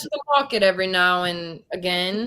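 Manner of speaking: put-on British, lightly done; British accent. Shown as a demonstration. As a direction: try an everyday British phrase in accent. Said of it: "what's some other words they say".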